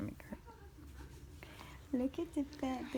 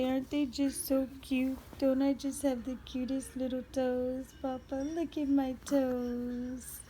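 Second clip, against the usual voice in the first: voicing the baby; 2 semitones higher than usual. Mother voicing the baby showing her toes to papa. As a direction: show off the toes as the baby would.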